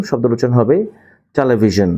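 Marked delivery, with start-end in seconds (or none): 1.4-1.9 টেলিভিশন said slowly and clearly as a model word; model pronunciation. Shown as a demonstration. Teacher models টেলিভিশন for students to repeat. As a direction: say টেলিভিশন carefully, each sound clear. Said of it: "আমার সাথে উচ্চারণ করুন".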